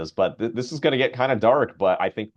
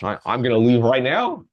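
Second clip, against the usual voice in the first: put-on excited old man; 3 semitones higher, 5 dB louder than usual.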